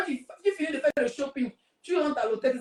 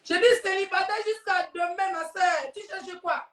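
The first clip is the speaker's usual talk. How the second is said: emphatic; 7 semitones higher than usual. Acted. Emphatic answer about being single.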